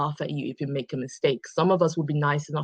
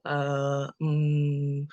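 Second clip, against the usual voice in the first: demo fillers; much slower than usual. Shown as a demonstration. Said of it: "Chances are I'm going to go".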